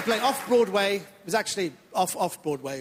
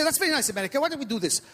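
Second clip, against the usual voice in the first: put-on comic Iranian accent, eager to please; 3 semitones higher, faster than usual. Comedian playing Iranian immigrant to the audience, put-on Iranian accent. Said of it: "a bit of an accent I do at the beginning".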